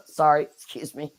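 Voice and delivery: hoarse voice fading out; raspy apology, trailing off; raspy whisper. Real, not acted. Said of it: "I'm losing my voice".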